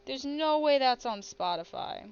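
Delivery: disbelief. Real, not acted. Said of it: "I'm looking this up as we speak".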